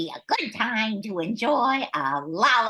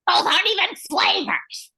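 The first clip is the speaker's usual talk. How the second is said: exasperated outburst; 12 semitones higher, 4 dB louder than usual. Real, not acted. Co-host calls plaid a flavor.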